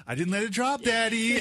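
put-on proud little boy. Dad imitating his son reporting success, high and proud. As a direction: pipe up like a child pleased with himself. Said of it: "he smiled and he goes".

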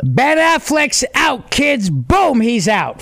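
gleeful announcement. Real, not acted. Host celebrates Batman actor's firing to co-hosts, triumphant. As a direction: announce it like the best news ever.

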